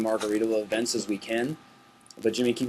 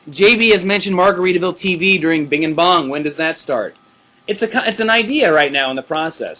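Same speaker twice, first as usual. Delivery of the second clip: infomercial voice; 5 semitones higher, 5 dB louder than usual. Acted. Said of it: "Making it sound like an infomercial".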